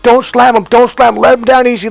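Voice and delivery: urgent high shout; ref shouting. Retold or imitated. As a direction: yell it like a ref warning the wrestler. Ref yelling during wrestling match.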